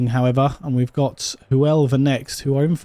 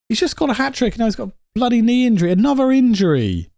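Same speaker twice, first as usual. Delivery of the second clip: higher, fast, fed-up outburst; real exasperation; 9 semitones higher, faster than usual. Real, not acted. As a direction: rattle it off in disbelief. Reacting to an injury.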